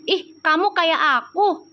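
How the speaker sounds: mildly voicing what she said to her twin; retold own remark. To her spirit twin, a slightly slowed exclaim. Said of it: "aku bilang gitu".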